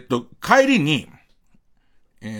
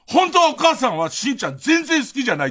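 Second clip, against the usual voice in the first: put-on kid's rising voice; 8 semitones higher than usual. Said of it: "トーンが上がってきちゃって".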